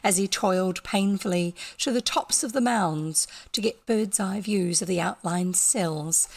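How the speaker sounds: steady storytelling read; story narration. A narrator's reading. Narrator reading the abbey story aloud, steady. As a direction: read the tale evenly to listeners.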